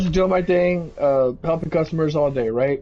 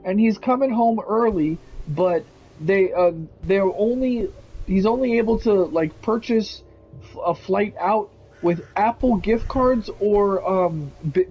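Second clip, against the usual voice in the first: scam customer story; 3 semitones higher than usual. Retold or imitated. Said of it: "And she goes".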